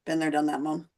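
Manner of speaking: low, quiet mock-weary reply; unimpressed kid. Son brushing off his mom's Christmas enthusiasm, mildly jaded. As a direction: imitate a son who is over it.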